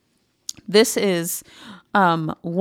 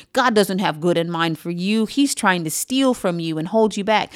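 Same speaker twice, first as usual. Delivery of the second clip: a sly, mocking devil, lightly done; the adversary's funny voice. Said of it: "I did put a funny voice on that because that's how the adversary talks".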